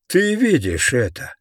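high, gleeful exclamation; jubilant. Acted. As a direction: crow it out in triumph. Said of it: "ликовал Слайм Вуди".

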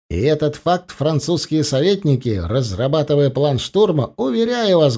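lightly voiced general. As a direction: lay out the plan to officers. General explains the plan.

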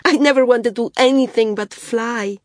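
put-on high, loud, elated girl; thrilled, voice soaring; sheer joy. A narrator's reading. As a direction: burst out overjoyed, drawing out the marvel. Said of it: "laughed in sheer joy".

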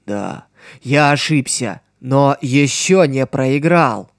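measured, stubborn admission; slow grim man. Acted. Swordsman speaks, slow. (медленно и упрямо)

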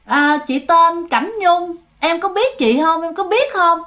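a hint of a spirit introducing herself; possessed woman. Possessed aunt introduces the ghost.

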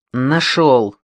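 calling out found it; shouting. Acted. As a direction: shout across the yard. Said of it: "закричал третий охранник".

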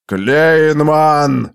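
drawn-out roar of a name; furious roar. A narrator's reading. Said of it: "яростно взревел он".

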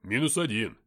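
loud triumphant call; exclamation. A narrator's reading. Nikita back in cover after firing, exclaiming. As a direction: call out a kill loudly. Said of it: "воскликнул".

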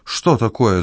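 a touch of panic, grabbed from behind; lightly voiced startled yelp; alarmed shout. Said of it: "закричал беспокойный старик".

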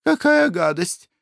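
high-pitched disgusted lady; shrill-free high fussy wife voice; Glafira, squeamish lady. Acted.

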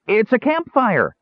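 high, drawn-out joyful cry; hysterical joy. A narrator's reading. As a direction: cry out in giddy relief. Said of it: "he babbled, nearly hysterical with joy".

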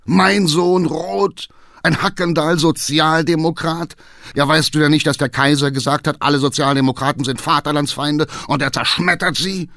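high, loud, appalled rant; outraged shouting. A narrator's reading. Father appalled at his Social Democrat son, shouting. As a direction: shout it in scandalized disbelief. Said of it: "schrie der Vater".

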